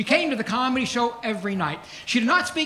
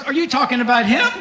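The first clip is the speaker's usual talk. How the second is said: incredulous question, punched louder at the end; mock disbelief; 5 dB louder than usual. Wife questioning the manager about her husband, mock disbelief. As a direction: play a wife who can't believe it.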